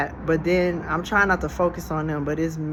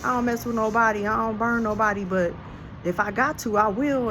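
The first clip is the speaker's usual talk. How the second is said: voicing the ex-prisoner; 6 semitones higher than usual. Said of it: "he got his whole story out".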